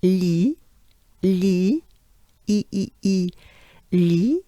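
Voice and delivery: "li" as lee with lips spread; banana-smile sound. Shown as a demonstration. Teacher drilling the first syllable, banana-smile lee. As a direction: isolate "li" and its ee, with pauses. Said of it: "So, banana smile".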